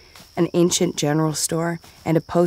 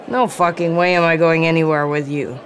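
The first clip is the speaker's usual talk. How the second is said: bellowing. Acted. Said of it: "the man bellowed".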